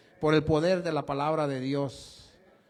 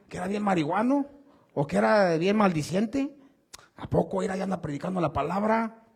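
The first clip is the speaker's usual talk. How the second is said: mocking gossip; 2 semitones higher than usual. Neighbours gossip about a convert.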